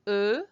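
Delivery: "E" as a short uh; regular French E. Shown as a demonstration. Teacher makes the sounds again, regular "E" as uh. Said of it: "is the regular E".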